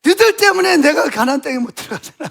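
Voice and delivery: mock Moses blaming the people; blaming complaint. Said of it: "하나님 원망하는 게 아니라".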